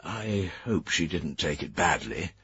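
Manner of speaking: soft, slow sympathetic murmur. Acted. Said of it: "His voice dropped sympathetically".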